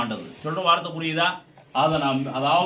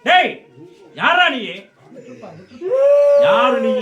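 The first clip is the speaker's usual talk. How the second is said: loud, higher-pitched challenge in short bursts; commanding shout; 6 semitones higher, 6 dB louder than usual. Real, not acted. Deity's medium demands the spirit look and name itself, commanding shout. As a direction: fire out demands to be answered.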